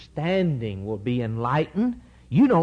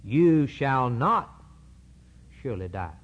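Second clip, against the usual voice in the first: serpent's denial. Acted. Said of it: "And the serpent said to the woman".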